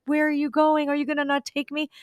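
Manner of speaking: high small dog voice, worried and pleading; pleading little dog. Pretend. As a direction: voice the dog begging not to be left. Voicing the little dog's thoughts.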